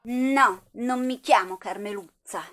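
indignant denial. Acted. Rifiuta il nomignolo.

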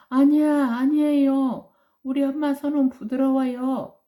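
high, loud distressed wail; crying out. Acted. Big brother to tiger, loud tearful cry. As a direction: plead through tears, loud. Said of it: "이렇게 울면서 말한 거야".

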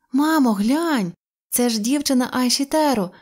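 put-on a boy crying out in delight; excited boy's cry. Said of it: "аж зойкнув хлопчик".

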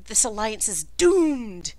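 hammed-up lament; dramatic exclamation. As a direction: exclaim it slowly, with mock foreboding. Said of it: "exclaim little things like".

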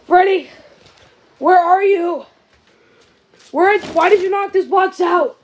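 loud demanding call. Real, not acted. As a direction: shout into the dark for Freddy. Calling out to hidden Freddy.

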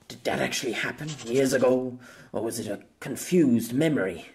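mild, puzzled lament; touch of lament in a muse to oneself. A narrator's reading. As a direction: wonder it aloud ruefully. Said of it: "he lamented".

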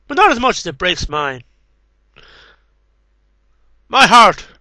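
measured, heartfelt poetry recital; poem reading. Acted. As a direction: read each line like a poem with pauses. Reads poems aloud.

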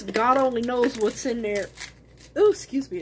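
words caught by a hiccup. Real, not acted. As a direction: say it as a hiccup breaks in. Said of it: "I got the hiccups".

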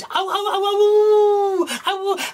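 high, loud wolf howling. Acted. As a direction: howl as the wolves draw nearer. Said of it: "making even more noise".

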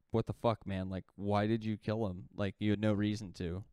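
mildly heated mock argument; exasperated retold protest; retold arguing. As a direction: argue it lightly, as if retelling a quarrel. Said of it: "starts arguing with Russell Crowe".

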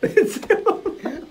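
high, slow mock gag voice; mock disgust, slowed. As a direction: drag the disgusted line out slowly. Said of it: "He's like".

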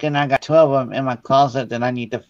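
hiccuping mid-sentence; hiccups. Real, not acted. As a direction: talk through hiccups, gasping. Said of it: "I got the hiccups so bad".

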